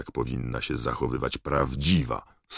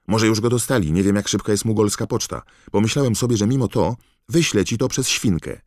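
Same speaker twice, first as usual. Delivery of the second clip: głośny, wysoki głos przejętego chłopca; podekscytowany list Rona; 6 semitones higher, 6 dB louder than usual. A narrator's reading. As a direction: read it out loud and high, gushing with news. List Rona czytany żywym głosem. (przejęty, głośny głos Rona)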